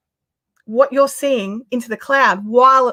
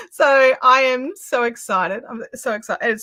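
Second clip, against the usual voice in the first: emotional. Real, not acted. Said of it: "I'm getting a bit emotional again".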